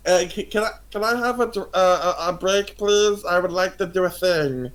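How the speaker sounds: high, hesitant little voice; tipsy little creature. Acted. Tipsy creature asking the bartender for a break, high hesitant voice. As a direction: stumble politely through a request, pitched high.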